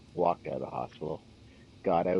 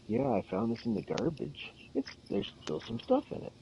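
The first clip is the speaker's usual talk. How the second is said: much higher, squeaky mock customer voice, half breathless; imitating the customer. Retelling the store guy who found a bottle, in a high squeaky mock voice. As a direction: play the odd customer, pitched way up.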